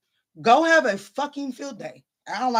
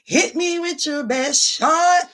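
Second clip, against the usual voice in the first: higher, louder, slower mock white girl; 7 semitones higher, 4 dB louder, slower than usual. To her viewers, mocking a white girl singing. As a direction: ham up a white girl belting the line. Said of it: "in my best white girl voice".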